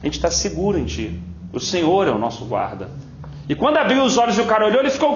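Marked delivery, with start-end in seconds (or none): 0.0-2.9 lower, calm and unhurried prayer; steady low reassuring prayer; calm prophet prayer. Retold or imitated. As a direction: voice the prophet at peace. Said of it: "O profeta tá tranquilo. Falou assim".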